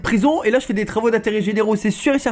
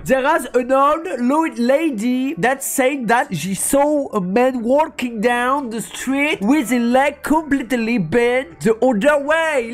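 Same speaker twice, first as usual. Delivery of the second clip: put-on higher, slow reading in French-accented English; catastrophic French-accented English; 4 semitones higher, much slower than usual. Streamer voices the game's dialogue, bad French accent. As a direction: stumble slowly through English with a French accent. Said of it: "Voilà l'accent anglais catastrophique".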